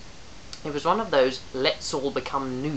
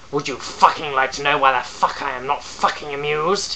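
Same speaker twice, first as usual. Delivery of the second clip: building to a scream; 2 semitones higher, 7 dB louder than usual. Acted. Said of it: "a constant crescendo from fairly quiet".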